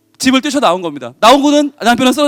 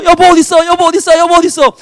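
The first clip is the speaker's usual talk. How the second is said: higher, louder repeated search call; 7 semitones higher, 5 dB louder than usual. Acted. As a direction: shout through the smoke for her. Husband searching burning house.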